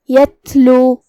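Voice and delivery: یتلو with the ta said weak and soft. Shown as a demonstration. Teacher models a soft ta for student. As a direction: recite یتلو, ta soft and light. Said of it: "حرف کی آواز ایسے کمزور ہو".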